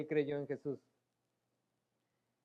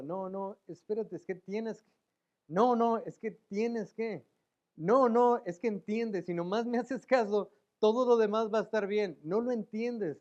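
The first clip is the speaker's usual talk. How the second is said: voz de Dios insistente, con unos "no, no" más altos y fuertes; un padre que ruega y se impacienta; Dios suplicando; 4 semitones higher, 5 dB louder, slower than usual. Acted. Dios voiced pleading with rebellious children. (súplica insistente con "no, no" gritados)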